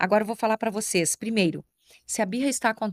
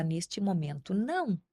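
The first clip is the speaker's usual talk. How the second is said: gentle but firm no; 5 dB quieter, slower than usual. Shown as a demonstration. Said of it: "Pode ser com carinho".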